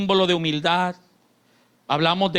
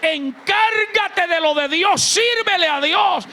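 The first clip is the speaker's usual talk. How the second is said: shouted, much higher preaching at full force; 13 semitones higher, 6 dB louder than usual. Acted. Pastor urging the church, shouting high and hard. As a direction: thunder it out to the congregation.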